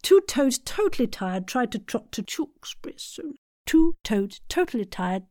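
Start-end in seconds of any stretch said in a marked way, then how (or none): 1.5-3.3 whisper. Shown as a demonstration. Whispered repeat of tongue twister.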